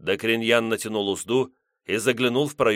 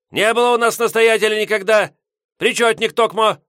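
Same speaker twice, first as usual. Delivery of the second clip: put-on grumpy old man; 13 semitones higher, 8 dB louder than usual. Headman yelling.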